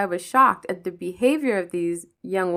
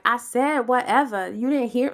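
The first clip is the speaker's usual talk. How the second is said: higher, pointed "whatever." with attitude; mock aggressive; 4 semitones higher than usual. Shown as a demonstration. How she did not answer the coworker, mock aggressive. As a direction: hit "whatever." sharply, like picking a fight. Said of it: "I got aggressive or my inflection changed".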